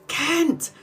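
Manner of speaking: retold scream. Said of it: "and I screamed".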